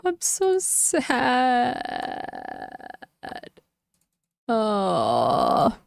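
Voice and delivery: very slow, drawn-out fake whimper; milk the sadness like a pouting child; mock crying. Streamer whining to chat about the lost game, mock sob.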